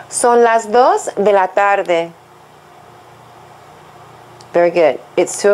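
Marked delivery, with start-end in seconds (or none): 0.1-2.1 slow, even full sentence; slow model again. Shown as a demonstration. Teacher re-models the sentence after the repetition, slowly. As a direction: model it slowly once more as a whole.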